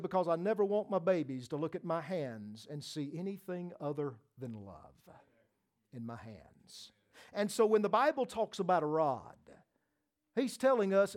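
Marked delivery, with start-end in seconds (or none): 0.0-6.9 softer, gentle quote fading away; mother's tender words. Retold or imitated. Preacher quoting his mother's love for her babies, tender and soft. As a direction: say it like a loving mother. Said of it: "she said".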